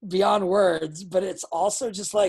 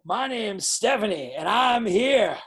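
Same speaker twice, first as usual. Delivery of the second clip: slow, louder, firm statements; confident promo; 3 dB louder, slower than usual. Shown as a demonstration. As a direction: declare it like you were sent by the gods. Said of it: "sound a thousand percent more confident".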